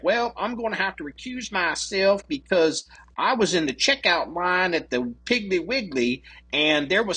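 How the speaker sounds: mimicking a lame justification; mock excuse-making. Mocking a feeble recusal excuse.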